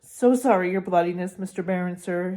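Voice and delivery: bow and scrape to the Baron; greasy grovelling. Acted. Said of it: "he said greasily".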